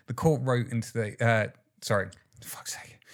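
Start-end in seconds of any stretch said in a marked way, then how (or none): 1.8-3.0 frustrated whisper under the breath; whispered frustration. Real, not acted. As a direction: whisper the curse to yourself. Muttered self-rebuke after misreading.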